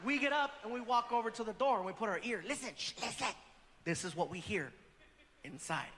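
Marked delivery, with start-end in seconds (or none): 2.5-5.9 softer, hushed and lower. Retold or imitated. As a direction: keep it down at the door. Hushing at the door.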